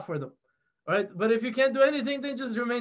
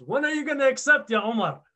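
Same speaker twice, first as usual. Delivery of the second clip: retold stern demand; 4 semitones higher, 3 dB louder than usual. Prophet grabs Omar and confronts him.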